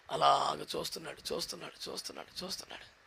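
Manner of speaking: repeats fading down to a breath; fading away. Acted. Moses waiting and watching, fading to a breath. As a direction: let each repeat die away to nothing.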